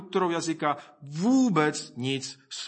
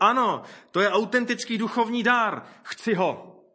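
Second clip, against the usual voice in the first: higher-pitched, keen endorsement; mock eager approval; 6 semitones higher than usual. One group welcoming tongues as a gift, imitated eagerness. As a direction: imitate someone eagerly saying yes.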